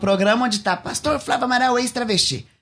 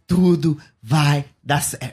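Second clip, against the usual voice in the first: slow reassuring inner voice; 5 semitones lower, slower than usual. Retold or imitated. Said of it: "continuou aquela voz assim pra mim".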